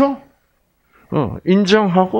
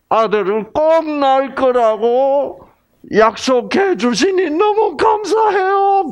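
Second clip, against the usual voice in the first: grateful Sarah; 6 semitones higher than usual. Acted. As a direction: play a grateful woman pleading upward, ever higher. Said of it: "그러면 나와서 어떻게 해야 돼요?".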